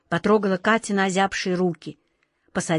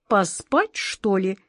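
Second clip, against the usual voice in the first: melancholy cat; slower than usual. Acted. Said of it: "меланхолично сказал кот Васька".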